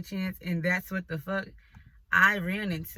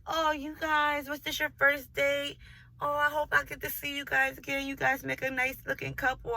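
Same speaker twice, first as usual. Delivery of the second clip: a lightly voiced, higher gushing waitress; mock sweet waitress; 6 semitones higher than usual. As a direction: gush like an overeager waitress. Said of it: "And the waitress like".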